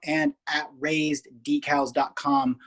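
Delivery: steady, measured promo read; sponsor ad read. Acted. Host pitching team gear sponsors to listeners, ad read. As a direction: pitch it like a podcast sponsor spot.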